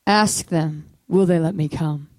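low, firm, measured voice of God; internal voice of the Lord. Retold or imitated. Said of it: "internal voice of the Lord".

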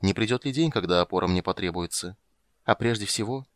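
ordinary delivery

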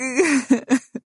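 high gasping sob; a sob catching the breath; sharp sob. A narrator's reading. Wife breaking down in husband's arms, sobbing gasp. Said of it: "وشهقت بقوة أكبر".

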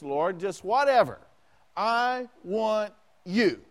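Jonah pleading from the belly of the fish, slowed down; crying out to God. Retold or imitated. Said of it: "And I'm crying out".

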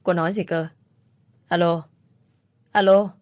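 urgent phone call. Acted. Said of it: "Đầu dây bên kia gấp gáp nói". (gấp gáp gọi alo, to dần)

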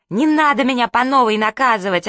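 loud, high protest; yelling. Acted. Sister yells as mum hauls her off to punish. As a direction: shout it as mum drags you off. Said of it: "орала сестра".

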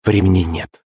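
slow, cold command; controlled, chilly insistence; icy. A narrator's reading. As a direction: cut him short with ice in the voice. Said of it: "со льдом в голосе ответила княгиня".

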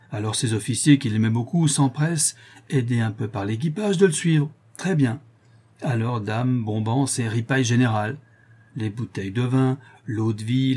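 lightly voiced, lively storytelling matelot; sailor spinning a yarn. Bastien tells the lieutenant the forgotten story, animated sailor yarn. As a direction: relish each step of a tall tale, lightly in character.

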